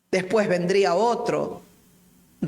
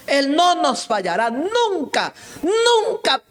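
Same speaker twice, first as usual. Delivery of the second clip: much higher, louder, building fervent cry; preaching climax; 11 semitones higher, 3 dB louder, slower than usual. Real, not acted. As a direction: lift NUNCA up with all your faith. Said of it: "preaching climax". (el predicador proclama con fervor creciente)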